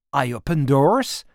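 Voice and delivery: thick French accent, playing dumb; broken English with a heavy French accent; girl feigns confusion to the mother in a French accent. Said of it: "en forçant à fond mon accent de Frenchie".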